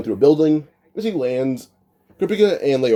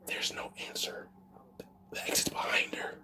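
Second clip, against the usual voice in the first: hushed, voiceless whisper; 17 dB quieter than usual. Acted. Gon smirks and whispers the answer to the others, whispering. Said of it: "whispering, like, you know".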